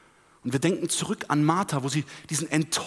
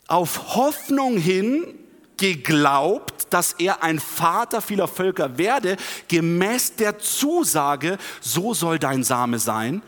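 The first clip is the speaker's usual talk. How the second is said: slow, emphatic Bible reading; scripture reading; 4 dB louder, slower than usual. Acted. Preacher reads of Abraham's hope, slow emphatic scripture reading. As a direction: read it out slowly with weight.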